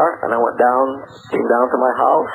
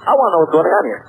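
retold demand, slightly raised in pitch; 4 semitones higher, faster than usual. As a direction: insist on an answer, mildly acted. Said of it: "I demanded. I said".

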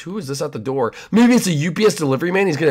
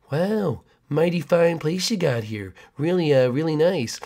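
creepy neighbor; 3 dB quieter than usual. Acted.

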